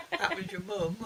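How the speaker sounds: loud, laughing punchline. Real, not acted. Laughs at her own story.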